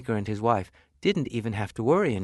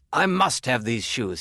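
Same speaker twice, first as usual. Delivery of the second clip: eager customer. Acted. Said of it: "he said".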